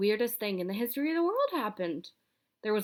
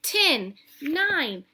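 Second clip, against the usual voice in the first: rising, louder countdown; 8 semitones higher, 7 dB louder, much slower than usual. A narrator's reading. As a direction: count down like a launch. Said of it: "the snowman started counting down".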